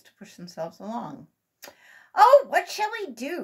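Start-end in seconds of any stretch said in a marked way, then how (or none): 2.2-3.4 high, loud, slow fretful wail; a child at a loss; worried cry. A narrator's reading. Sammy stuck in the canoe without paddles, worried. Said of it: "cried Sammy".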